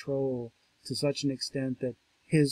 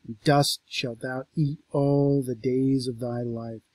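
scripture reading; 4 dB louder than usual. Acted. Lecturer reading God cursing the serpent, grave. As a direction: deliver the curse gravely. Reads the curse.

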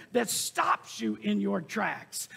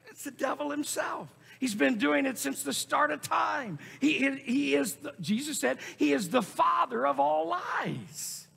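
raised, mounting denunciation; forceful preaching; 4 semitones higher than usual. Real, not acted. Preacher naming the devil as father of lies, forceful preaching.

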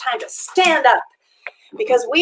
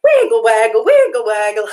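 calling out; 5 dB louder than usual. Shown as a demonstration. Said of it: "Let's see you at home try it".

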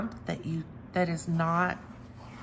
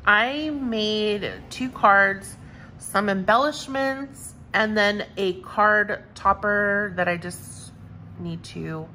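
excited; 5 dB louder than usual. Real, not acted. Showing her own cards proudly.

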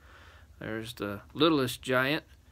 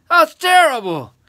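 high, loud giant wail; horrified shout; 15 dB louder than usual. A narrator's reading. Giant appalled by the boy's secret, horrified shout. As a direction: cry out in storybook horror. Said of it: "he shouted".

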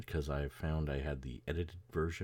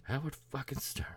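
whispered; 11 semitones higher than usual. Retold or imitated. Repeating the character's line.

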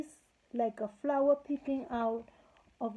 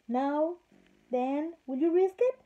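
higher, louder daring challenge; challenging; 4 semitones higher, 4 dB louder than usual. Acted. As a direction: dare them, rising and louder. King challenges the fairies.

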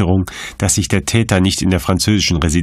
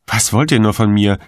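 whining; 4 semitones higher than usual. Acted. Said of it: "jammerte Wissmann".

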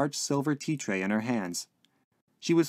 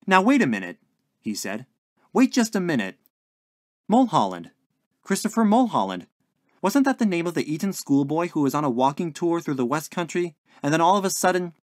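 louder, higher, urgent remembering; dawning recollection; 6 semitones higher, 5 dB louder than usual. A narrator's reading. Lodger piecing together a half-remembered news story, urgent. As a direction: grasp at the memory with rising urgency. Billy suddenly remembering, gets excited.

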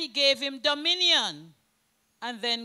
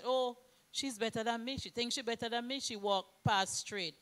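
imagined insecure grumble; 4 semitones lower, 7 dB quieter than usual. Retold or imitated. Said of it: "we say".

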